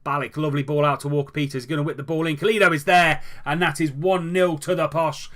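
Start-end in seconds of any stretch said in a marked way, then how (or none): 2.4-5.3 excited goal call. Real, not acted. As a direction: call the goal like a live commentator. Goal scored, commentator calls it.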